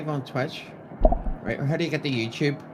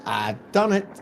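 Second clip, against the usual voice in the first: triumphant; 4 semitones higher, 12 dB louder, slower than usual. Real, not acted. Triumphant at going live.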